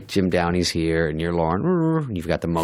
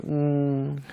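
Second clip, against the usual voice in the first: imitated let-down "mm", raised pitch; disappointed hum; 5 semitones higher than usual. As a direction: hum mild disapproval as a boss would. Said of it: "Little disappointment".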